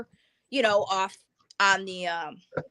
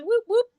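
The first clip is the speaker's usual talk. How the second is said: two short siren whoops; imitated police siren; 12 semitones higher, 4 dB louder than usual. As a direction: mimic a quick burst of police siren. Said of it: "just turn their lights on".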